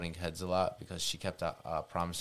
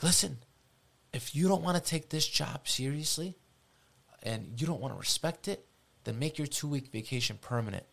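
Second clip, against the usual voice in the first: stern boss; 7 semitones higher than usual. Retold or imitated. Boss threatens him, retold.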